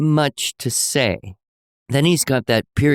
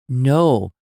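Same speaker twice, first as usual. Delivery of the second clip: put-on little boy; 4 semitones higher, 3 dB louder, slower than usual. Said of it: "And he goes".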